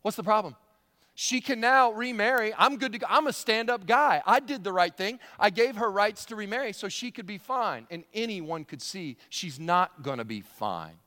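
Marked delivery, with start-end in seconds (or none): 0.0-7.9 mock self-satisfied man, higher and louder; smug self-praise. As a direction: play the smug husband pleased with himself. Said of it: "patting himself on the back going".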